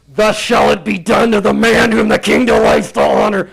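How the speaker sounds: booming public proclamation; herald's proclamation. Acted. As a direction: cry it out like a royal herald across the square. Herald proclaiming before Mordecai.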